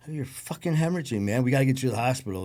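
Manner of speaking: urgent alarm. Retold or imitated. Friend urging a bleeding man to the hospital, urgent alarm. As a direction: press him hard, pitch up.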